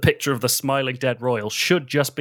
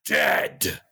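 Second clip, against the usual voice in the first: much lower, grave single word; deep announcer dead; 8 semitones lower than usual. Pretend. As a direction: drop the voice and intone it. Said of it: "who will say".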